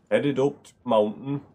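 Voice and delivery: put-on light Yorkshire accent, dropping the article to t'; a playful Yorkshire lilt on t' mountain. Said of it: "I don't know why I'm from Yorkshire".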